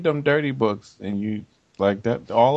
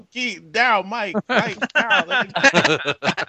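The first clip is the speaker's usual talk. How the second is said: high, frantic calling of names, hammed up; mock frantic yelling; 9 semitones higher, slower than usual. Friend mocks him yelling names, mock frantic. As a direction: call out names in mock panic. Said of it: "He started yelling".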